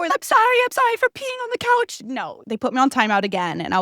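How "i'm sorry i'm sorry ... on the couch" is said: high whimpering mock sob; hammed-up high whimper of sorry; mock dog crying. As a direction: whine it like a dog left outside. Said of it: "crying at the door".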